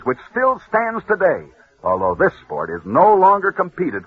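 put-on building suspense like an old radio host; vintage broadcaster spinning a tale; dramatic radio storytelling. A narrator's reading. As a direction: tell the legend with mounting drama, then hush it.

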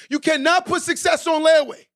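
preacher's call to repeat; call-out for the crowd. Shown as a demonstration. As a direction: lead the crowd in the chant. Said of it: "Say this with me".

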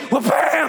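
explosive, drawn-out "bam"; imitated chute jolt. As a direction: make the noise of a parachute snapping open. Imitates parachute opening.

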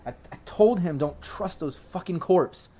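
tearful, choked voice on the edge of sobs; crying over a lost friend. Acted. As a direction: fight back tears as you speak. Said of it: "but she's definitely crying".

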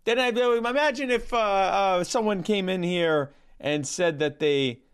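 deadpan anti-joke storyteller, understated; Norm Macdonald impression. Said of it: "cease and desist from the Norm Macdonald estate".

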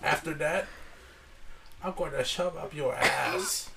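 lightly put-on Asian accent dad; Chinese restaurant accent. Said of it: "Why do you sound like the guy at the Chinese restaurant?".

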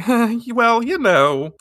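high, drawn-out awkward brush-off; laughing it off. Retold or imitated. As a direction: play someone awkwardly shrugging it off. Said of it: "trying to laugh it off".

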